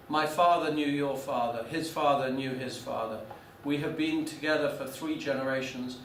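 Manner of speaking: put-on measured banker's reproach in rough Italian accent; bad Italian accent. Italian banker rebukes the visiting lawyer, bad Italian accent. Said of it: "I can, but it's very bad".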